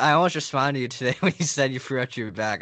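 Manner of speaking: laughing through the words; chuckling while talking. Real, not acted.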